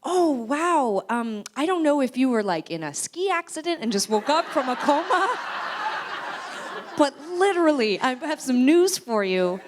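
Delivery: high, loud, laughing retort; imitated amused disbelief. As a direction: retell it loudly, cracking up at the absurdity. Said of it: "Sarah starts to laugh and is like".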